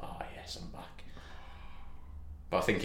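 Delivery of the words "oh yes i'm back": very soft, blissful mock whisper; savouring whisper. Player back in the changing room, savouring whisper. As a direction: whisper it as if breathing in a lovely smell. Imagined private savouring of familiar smell.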